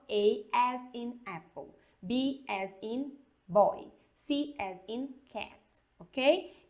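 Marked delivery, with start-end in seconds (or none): 0.1-5.6 A as in apple spelled in English; spelling out letters the English way; English letter names. Shown as a demonstration. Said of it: "eles falam".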